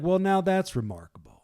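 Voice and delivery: high, loud feigned amazement; mock sarcasm. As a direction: act out sarcastic wonder at their ignorance.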